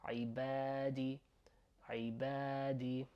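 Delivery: "عبادي" with the middle a held long; careful teaching model of "عبادي". Shown as a demonstration. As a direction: stretch the "ba" in "عبادي". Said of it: "we have two A's here".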